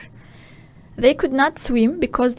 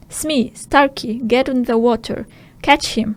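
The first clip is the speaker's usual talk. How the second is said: yelled order. Acted. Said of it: "Hook yelled".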